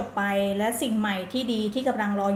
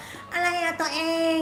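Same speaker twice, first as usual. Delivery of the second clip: put-on much higher, slow, sugary baby talk to a partner; sweet lover's voice; 7 semitones higher, much slower than usual. Shown as a demonstration. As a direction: coo it sweetly to your boyfriend. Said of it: "เสียงสองเราก็มาได้".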